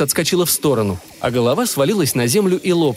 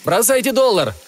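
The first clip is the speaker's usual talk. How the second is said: urgent shouted order, higher; combat callout; 9 semitones higher than usual. A narrator's reading. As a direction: bark the order mid-fight. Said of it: "крикнул Торнтон".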